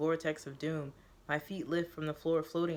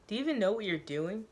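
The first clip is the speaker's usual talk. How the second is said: laughing; 5 semitones higher than usual. Acted. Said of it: "she laughs".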